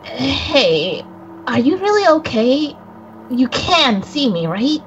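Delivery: lightly voiced boy, worried; a hint of an anxious boy checking on someone; young boy character. Friend voicing the spirit boy checking on the player, lightly worried. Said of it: "Coco, please, please take it away".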